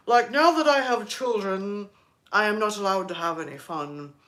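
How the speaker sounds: stiff, joyless parent impression; put-on solemn parent voice; mock serious parent. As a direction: imitate a parent who takes everything seriously. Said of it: "very serious".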